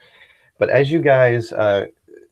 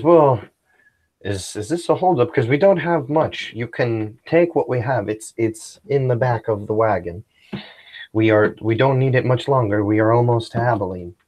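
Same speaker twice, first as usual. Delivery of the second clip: pleading father; 3 semitones higher than usual. Acted.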